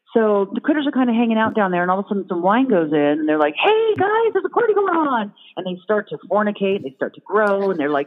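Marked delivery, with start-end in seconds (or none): 3.6-5.3 critter voice. Retold or imitated.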